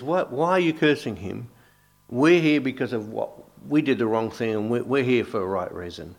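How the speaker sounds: a crucified thief telling the other off, loud and indignant; indignant rebuke. Acted.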